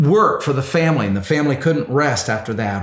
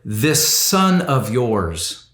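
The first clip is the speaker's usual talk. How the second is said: contemptuous; 3 semitones lower, much slower than usual. Retold or imitated. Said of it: "The older brother said to the father".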